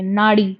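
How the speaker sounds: नाड़ी said with a retroflex flap ड़, not a plain r. Shown as a demonstration. Teacher telling students to say नाड़ी with a flap, not नारी. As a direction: tap the tongue back for the ड़ in नाड़ी. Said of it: "नाड़ी बोलते हैं ना कि नारी".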